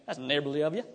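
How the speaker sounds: light Southern US accent, lilting up at the end. Shown as a demonstration. Preacher testing his lost Southern accent on the group. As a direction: try out a half-remembered Southern accent. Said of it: "I say that with my Southern accent".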